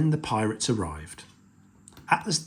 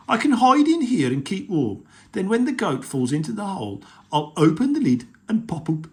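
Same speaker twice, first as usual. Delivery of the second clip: troll voice; 7 semitones higher, 5 dB louder, faster than usual. Acted. Troll scheming in story.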